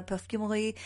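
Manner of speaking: "perfumery" tried in a French accent; amateur French take on "perfumery"; French-style pronunciation. Shown as a demonstration. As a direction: give "perfumery" a French ending. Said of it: "you say in French".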